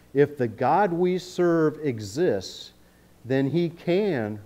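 slow, leaning on "can" with a drawn-out falling "can"; stress on can. Shown as a demonstration. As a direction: let "can" carry the weight, slowly. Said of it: "notice can, not will".

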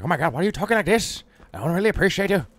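put-on offended character; mock scolding voice. Streamer acting someone objecting to the accent, mock offended.

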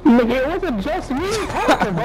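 heated yelling. Real, not acted. Angry yelling at teammate over mic.

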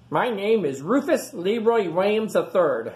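put-on proud kid introducing himself; eager young pig. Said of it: "said Rufus".

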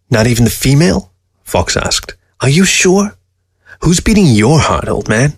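lightly voiced probing fox; sly questioning, lifted in pitch; needling fox.

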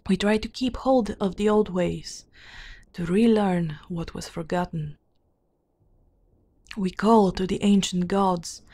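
measured, deliberate storybook reading; formal fantasy narration; lore narration. A narrator's reading. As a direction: read out old lore in even phrases. Reads game lore aloud.

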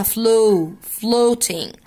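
"flow" with a drawn-out long o, then "Floating". Shown as a demonstration. Teacher applying the vowel rule, long o in "flow" and "Floating". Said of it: "اتفقنا إن هي بتتنطق long".

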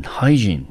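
hygiene said as HY-jeen, first syllable stressed; model pronunciation. Shown as a demonstration. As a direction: give the model reading of hygiene. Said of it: "我们念成hygiene".

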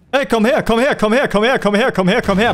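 hoch und neckend, langsam abklingend; spöttisches Locken. Real, not acted. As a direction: lock es spöttisch heran. Lockt das Monster an. (neckendes Herbeirufen des Monsters)

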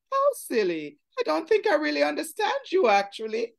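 a touch of a snooty put-on English accent; fake foreign twang. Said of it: "his foreign twang the boy was a put on".

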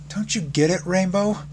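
plead, letting the pitch climb; voice beginning to rise. A narrator's reading. Fluttershy shaking her head at Rainbow, voice rising. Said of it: "Her dull, whispering voice was beginning to rise".

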